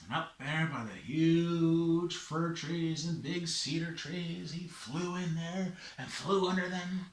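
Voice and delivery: measured telling with long pauses; story narration. A narrator's reading. Storyteller follows Raven up Mount Maxwell, measured narration.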